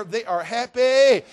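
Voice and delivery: loud, slow joyful shout; hammed-up church joy; excited. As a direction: burst out with joy. Taste buds rejoicing, loud and slow.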